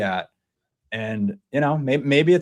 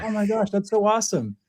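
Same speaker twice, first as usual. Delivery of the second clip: put-on thrilled kid; 10 semitones higher than usual. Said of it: "He's like".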